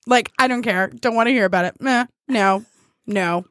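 imitating someone who won't engage; uninterested, falling away on each no; dead-serious dismissal. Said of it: "she gets real serious face and she'll be like".

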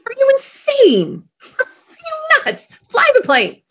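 very high, incredulous squeal; panicked passenger. Acted. Passenger to captain who left the cockpit, panicked disbelief. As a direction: squeal it at the pilot in mock panic. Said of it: "what would you say to him?".

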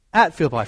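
At in At Philippi hit firmly again; stress on at. Shown as a demonstration. Preacher repeating the phrase for the congregation, stressing At. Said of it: "Did you catch that?".

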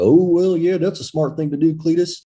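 sneering hick voice to mock someone as dumb; mocking country twang. Shown as a demonstration. Speaker mocking a "dumb" person, in a put-on country twang. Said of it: "I might put on a country twang".

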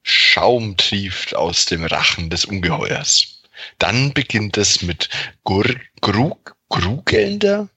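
steady, deliberate narrator voice; story narration. Acted. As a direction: read it like spooky game text. Narrates text adventure scene.

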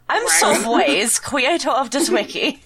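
lightly voiced cartoon dog; a hint of a yappy pup. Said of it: "Do a dog voice".

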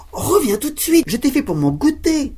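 put-on high, loud calling old woman; old woman calling high and loud after the cookie. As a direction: call after the runaway cookie, high-pitched. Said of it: "en criant".

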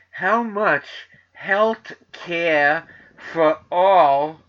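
put-on big New York stump-speech accent, word by word; Bernie Sanders. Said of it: "I can't do a New York accent".

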